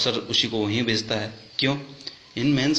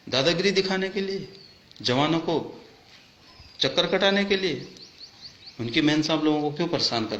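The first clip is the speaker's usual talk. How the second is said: indignant outburst; 5 semitones higher than usual. Real, not acted. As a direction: pitch jumps much higher in angry disbelief. Indignant rhetorical questions at officers. (अफसरों से नाराज़ होकर ऊँची आवाज़ में तीखे सवाल)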